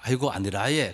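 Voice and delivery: understated Gyeongsang lilt; Gyeongsang dialect. Retold or imitated. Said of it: "경상도 사람들은".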